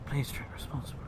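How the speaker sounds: soft, whispery small print; hushed mock disclaimer. Streamer adding a drinking warning, hushed mock-earnest aside. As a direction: whisper it as a quick caveat.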